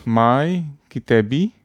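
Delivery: my kitabi said slowly, stressing the final i of kitabi; Arabic "my book", said slowly as a demo; slow Arabic word. Shown as a demonstration. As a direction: spell out kitabi syllable by syllable. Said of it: "So a book is kitab".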